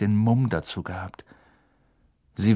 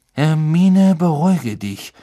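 calming over shouting; 5 semitones higher, 7 dB louder than usual. A narrator's reading. Lupin beschwichtigt die schreiende Hermine.

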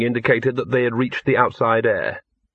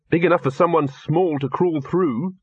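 higher-pitched gentle coaxing; encouraging; 5 semitones higher than usual. Acted. Victor urging the dog to crawl through, encouraging. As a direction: coax the small one towards the gap. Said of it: "said Victor encouragingly".

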